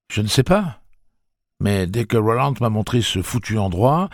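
voix haute et plus forte; Eddie agité. Acted. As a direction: parle sous tension. Voix d'Eddie. (Eddie répond à Susannah, nerveux)

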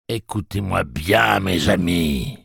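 slow, booming machine voice; slow announcement from the machine; roar. Acted. Blaine addresses the travellers: slow, lightly voiced roar. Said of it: "rugit la voix de Blaine".

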